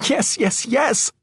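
high-pitched frantic reply. A narrator's reading. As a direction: answer in a high panic. Panicked wife answering raging husband.

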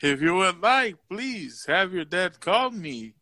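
a touch of a soothing teacher voice; teacher impression. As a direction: ease into the teacher's polite offer. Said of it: "you sound just like him".

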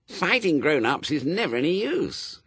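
high-voiced gloomy child. A narrator's reading. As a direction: grumble it as a hopeless prospect. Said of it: "said Wensleydale gloomily".

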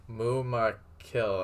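"Mu Ma Kill" slow, syllable by syllable; halting pronunciation. A narrator's reading. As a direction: sound out "Mu Ma Kill" as a foreign name. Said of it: "pronounced the name stutteringly".

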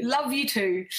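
a little brighter and fonder; affectionate reply. Real, not acted. Host answers a viewer's love, warmly. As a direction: answer her back with real affection.

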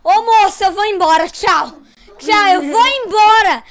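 bronca encenada, mais aguda e enfática; mãe brigando. Retold or imitated. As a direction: imitar mãe indignada, esticando as últimas frases. Imita a mãe brigando no hospital. (mãe furiosa, em tom de imitação)

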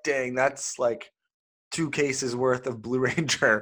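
talking around a cough drop; words slurred by a lozenge; cough drop in mouth. Real, not acted. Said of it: "I have a cough drop in my mouth".

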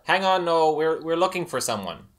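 loud, high and urgent; urgent interruption. Acted. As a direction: cut in loudly, alarmed. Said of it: "and Sarah says".

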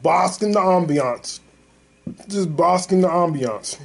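slow, savored movie line; Terry Crews quote. Retold or imitated. Fan quoting a White Chicks line, drawn out. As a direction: draw the words out slowly. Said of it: "What Terry Crews say on White Chicks?".

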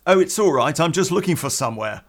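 imitating a nervous, over-casual reassurance. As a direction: blurt it out as a nervous excuse. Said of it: "in a very nervous voice".

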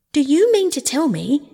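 high, loud, incredulous outburst; shout. A narrator's reading. Rat thumps the table at Toad, astonished shout. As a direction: burst out in disbelief. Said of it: "shouted the rat".

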